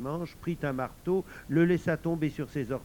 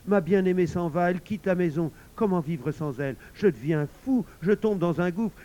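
despairing husband; 5 semitones higher, 6 dB louder than usual. Acted. Husband panics as wife leaves.

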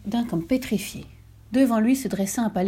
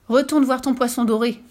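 a loud, higher command; shouted order; 5 semitones higher, 4 dB louder than usual. Acted. Wife shouting as he comes through the door. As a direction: yell the order at him. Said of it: "hurla-t-elle".

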